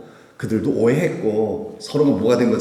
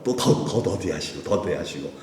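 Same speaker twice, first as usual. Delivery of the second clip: drawn-out slowing; 5 semitones lower, 4 dB quieter than usual. Shown as a demonstration. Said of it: "좀 더".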